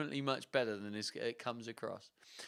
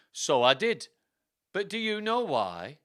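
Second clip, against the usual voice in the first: louder, theatrical comeback; retort; 4 semitones higher, 6 dB louder than usual. Acted. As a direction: retort like a stage villain. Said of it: "I retorted".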